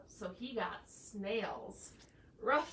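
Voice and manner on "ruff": bark. Acted. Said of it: "said the rooster".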